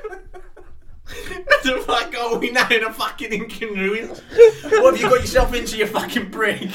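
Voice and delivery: hammed-up angry imitation; imitating aggressive. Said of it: "So aggressive".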